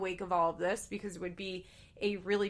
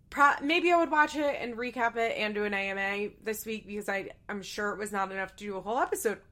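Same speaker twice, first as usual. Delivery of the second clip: with hiccups. Real, not acted. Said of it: "I have hiccups".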